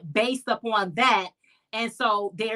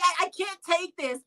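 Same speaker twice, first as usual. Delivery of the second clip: fake crying; 7 semitones higher than usual. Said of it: "I turned on my acting skills".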